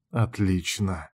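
a satisfied predatory grin in the voice; pleased grin. Acted. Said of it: "довольно оскалился я". (довольно, медленно и тихо)

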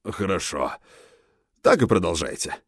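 low, kindly encouragement; encouraging. A narrator's reading. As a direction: reassure him gently, approving. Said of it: "сказал он ободряюще".

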